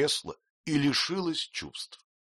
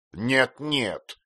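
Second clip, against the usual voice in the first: snapped, louder no; curt refusal; 5 semitones higher, 5 dB louder than usual. A narrator's reading. Aunt cuts off the mother's fear, curtly. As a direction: cut her off sharply. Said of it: "отрезала мисс Бетси".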